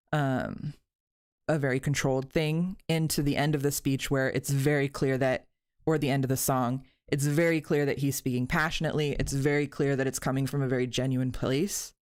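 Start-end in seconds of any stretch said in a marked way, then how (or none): 2.9-11.9 short of breath; breathless from leaning over the mic; running out of air. Real, not acted. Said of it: "I'm running out of breath".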